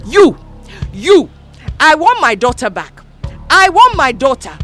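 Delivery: high, loud desperate yell; shouting. A narrator's reading. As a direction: demand the daughter back. Mother screaming at Mama.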